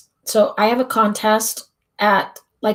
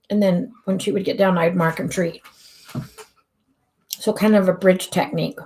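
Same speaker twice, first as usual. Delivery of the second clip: talking while chewing gum. Real, not acted. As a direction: speak around a piece of gum. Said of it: "Sorry, I'm chewing gum".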